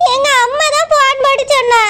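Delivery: put-on tearful whine; fake crying. Wife telling husband who phoned, fake crying. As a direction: answer through mock sobs. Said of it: "அழுதுட்டு இருக்கேன்".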